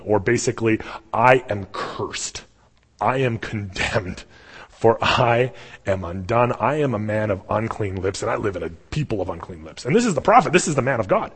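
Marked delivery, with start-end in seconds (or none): 1.1-9.8 acted despairing lament. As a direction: draw the words out as a doomed confession. Isaiah collapses, laments.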